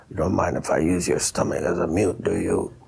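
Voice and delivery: low, growly voice with a rough edge. Retelling what a horn player said to them, imitating his growly voice. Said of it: "and with his growly voice".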